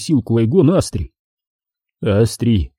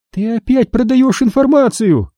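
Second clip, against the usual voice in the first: angry shout; 12 semitones higher than usual. A narrator's reading. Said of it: "гневно выкрикнула Астри".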